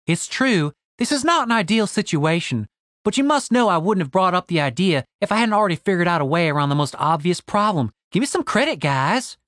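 lightly voiced confident woman defending her plan; a touch of self-assured protest, lilting up; Stacy. Stacy defending her idea to doubting companions, lightly voiced and self-assured.

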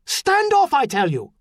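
insistent high shout, falling at the end; loud command to intruders; barked order. A narrator's reading. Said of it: "his mother barked".

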